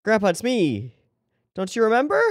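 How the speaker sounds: tearful muffled scam call. Pretend. Pretend grandchild pleading on call.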